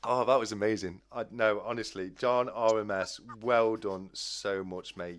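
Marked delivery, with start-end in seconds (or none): 2.5-5.2 sincere congratulations. Real, not acted. Congratulating the winner.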